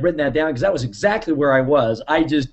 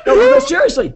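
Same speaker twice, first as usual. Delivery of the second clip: high, laughing no, no; laughing protest; 4 dB louder than usual. Real, not acted. Host laughing, insisting everyone take notes. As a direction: push through the giggles.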